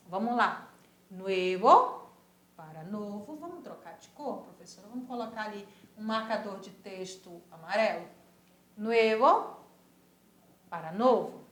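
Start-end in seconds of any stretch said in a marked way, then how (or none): 1.1-2.0 nuevo said the Spanish way, ue glide; Spanish pronunciation. Shown as a demonstration. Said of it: "repitam sempre que possível as palavras". 8.8-9.6 nuevo said the Spanish way, ue glide; Spanish pronunciation. Shown as a demonstration. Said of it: "repitam sempre que possível".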